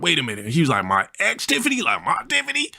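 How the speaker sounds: very high, shocked homie impression; friend's voice. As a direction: let the voice shoot up in shock. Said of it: "Yeah, that's how he talked".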